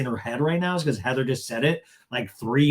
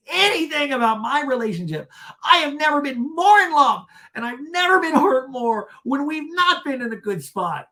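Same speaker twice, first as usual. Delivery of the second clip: high, loud mock anguish; overwrought, hammed-up declaration; Shannon; 11 semitones higher, 5 dB louder than usual. Shannon insisting she's in love, mock anguish. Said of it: "And Shannon goes".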